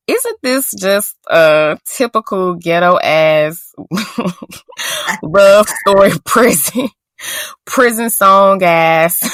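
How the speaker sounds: drawn-out mocking, laughing through it; laughing mockery. Real, not acted. Host mocking the prison romance, laughing. Mocking the ghetto love story.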